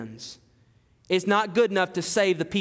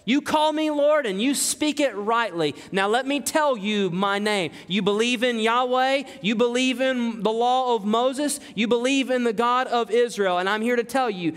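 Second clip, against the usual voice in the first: higher, ringing proclamation of his name; Jesus proclaiming; 5 semitones higher than usual. Acted. Jesus declares himself to Paul, raised and ringing. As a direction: preach it as the risen Lord declaring himself. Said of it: "He says".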